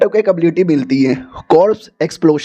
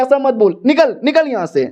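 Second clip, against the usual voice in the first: put-on girl's angry retort; 6 semitones higher than usual. Girl angrily throws him out.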